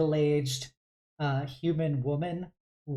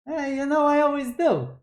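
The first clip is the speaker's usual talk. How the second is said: much higher, bright reply; cheerful dad; 11 semitones higher, 5 dB louder than usual. Acted. Dad assuring the stranger he loves his family, higher. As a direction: toss it off happily.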